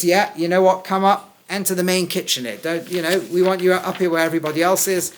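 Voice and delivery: loud invitation. Acted. Acting Boaz inviting Ruth.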